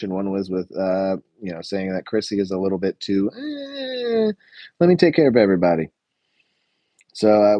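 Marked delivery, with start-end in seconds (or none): 3.4-4.3 long, high, wavering "eh"; high drawn-out "eh". Shown as a demonstration. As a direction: squeeze out a high noncommittal noise. Noise replaces the word for Chrissy.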